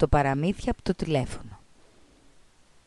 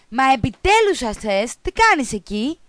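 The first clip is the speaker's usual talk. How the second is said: exasperated teacher; 5 semitones higher than usual. Acted. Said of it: "ρώτησε η δασκάλα".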